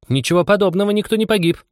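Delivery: indignant, very high mouse voice; angry mouse. A narrator's reading. Mouse contradicting Anya, seriously annoyed. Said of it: "не на шутку рассердилась мышь".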